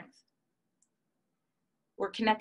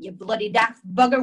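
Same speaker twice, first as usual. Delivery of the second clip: put-on louder, British accent, angry scolding; British grandma scolding; 8 dB louder than usual. British grandma scolding her daughter, loud and angry. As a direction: bark it like a furious British gran. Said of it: "my grandma's British".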